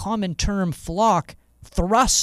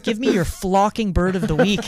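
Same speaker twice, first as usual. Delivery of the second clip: loud sharp voice; 5 semitones higher, 6 dB louder than usual. Pretend. Mock yelling demand at cohost.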